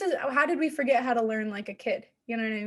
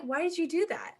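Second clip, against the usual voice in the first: higher-pitched puzzled question; genuinely confused; 5 semitones higher than usual. Retold or imitated. Confused roommate asking why, higher and puzzled. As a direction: ask it in baffled innocence. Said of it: "I'm just so confused".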